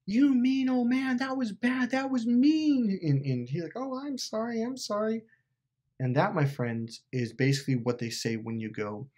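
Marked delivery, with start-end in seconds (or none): 0.0-3.0 high, drawn-out mock scolding; Dorothy. Dorothy telling off the old man, high scolding voice. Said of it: "Dorothy's like". 3.8-5.2 high, softer mock-meek apology; weak little old man. Exposed wizard apologising to Dorothy, meek high voice. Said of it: "this weak, fat little old man".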